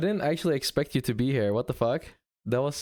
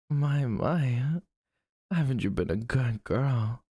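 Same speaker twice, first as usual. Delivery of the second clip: low doting voice; 3 semitones lower than usual. Pretend. Streamer to chat on request, low doting voice. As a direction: coo praise like a gentle big brother. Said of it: "Talk to me more in that voice".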